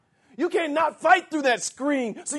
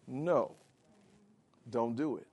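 soft no; 11 semitones lower, 11 dB quieter than usual. Shown as a demonstration. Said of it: "that word in the Greek is an emphatic no".

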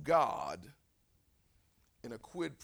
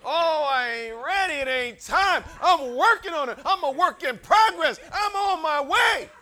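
hammed-up loud excuses, climbing high; mock protest building to a high shout; balking churchgoer; 13 semitones higher, 15 dB louder than usual. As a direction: act out a churchgoer wriggling out of a promise. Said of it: "And you're like".

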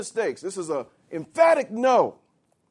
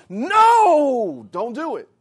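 a forceful, urgent no to stop it; emphatic no; 2 semitones higher, 6 dB louder, much slower than usual. Shown as a demonstration. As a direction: slam the No down hard. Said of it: "an emphatic no".

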